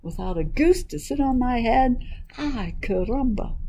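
lightly voiced exclaiming hen; chicken's cry. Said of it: "cried the chicken".

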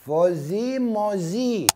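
drawn-out, slow calling of the name; slow, showy emcee call; slow announcement. Acted. Announcing next contestant.

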